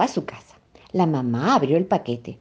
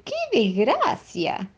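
mournful; 5 semitones higher, much slower than usual. A narrator's reading. Bird translates its song as a lament. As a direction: draw it out sadly. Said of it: "en idioma de pajarito quiere decir".

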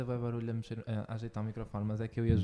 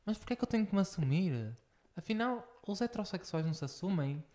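indignant film quote; 6 semitones higher than usual. Retold or imitated. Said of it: "eles dizem assim".

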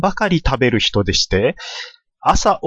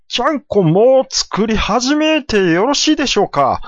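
timid apprentice; 9 semitones higher than usual. Acted. Apprentice asks his stablemaster.

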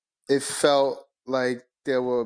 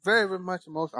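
mock emphatic, much higher; 9 semitones higher, much faster than usual. Real, not acted. Exaggerating how emotional he is.

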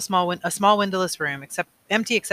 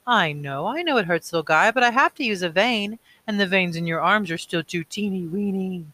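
slower, doting voice soothing a newborn; special baby voice; 3 semitones higher, 3 dB louder than usual. Acted. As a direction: comfort the little guy gently, slowly. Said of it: "Still in the special voice".

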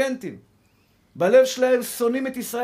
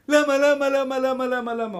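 anguished why, fading; 2 semitones higher than usual. Acted. Preacher voicing a believer's protest, crying out then fading. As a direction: cry out why, then let it sink to a murmur.

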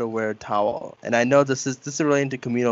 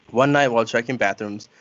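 laughing while reading; 2 semitones lower than usual. Real, not acted. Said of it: "Sorry, I got this".

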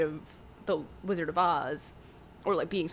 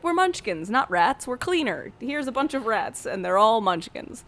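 Rizzo the Rat; 4 semitones higher, 3 dB louder than usual. Retold or imitated. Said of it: "Rizzo the Rat is like".

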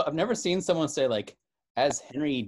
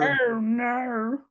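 "Oh, no" pitched much higher with an added R; mock British oh no; 9 semitones higher, 4 dB louder than usual. Friend copying the British shocked "Oh, no", high. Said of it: "they say".

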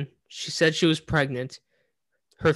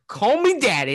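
mock Ric Flair; 7 semitones higher, 4 dB louder than usual. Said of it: "And he says".

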